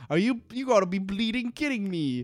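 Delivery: a hammed-up British rant, voice pushed up high; mock British rant. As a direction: play a cartoon Brit who's outraged. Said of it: "angry British slang".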